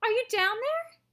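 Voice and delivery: high, loud call into the dark; shouted. A narrator's reading. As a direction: shout down the chute. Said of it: "shouted Missus Salt".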